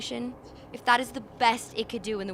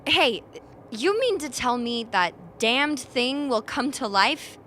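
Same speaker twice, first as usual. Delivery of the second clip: excited; 2 semitones higher, 6 dB louder than usual. Acted. Crew wants to chop the thing.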